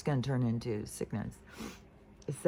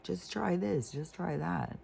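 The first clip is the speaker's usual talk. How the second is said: voicing fix-it mom; 5 semitones higher than usual. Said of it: "she just started trying to fix it".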